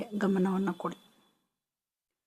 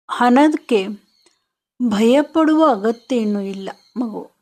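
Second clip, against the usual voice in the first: higher, louder affirmations in short phrases with pauses; loving reassurance; 4 semitones higher, 5 dB louder than usual. Shown as a demonstration. Guide speaking to the frightened inner child, loving reassurance. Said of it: "ಪ್ರೀತಿಯಿಂದ ನೋಡಿ ಮತ್ತು ನಿಧಾನವಾಗಿ ಹೇಳಿ".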